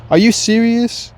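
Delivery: fed-up rant at your heart; exasperated. Retold or imitated. Arguing with his heart.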